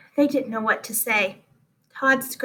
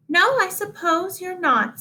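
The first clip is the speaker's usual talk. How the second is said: higher, reluctant teacher voice; conceding teacher; 8 semitones higher than usual. Acted. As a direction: give in with a lilt.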